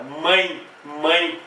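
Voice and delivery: "mãe" ending in an I glide; final I sound. Shown as a demonstration. Teacher demonstrating E sounding as I, final I sound. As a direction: say "mãe" with the last E as I. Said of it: "Sai lá no final com som de I".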